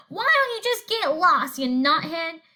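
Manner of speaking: mock bird call; parrot calling out. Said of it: "the parrot called out".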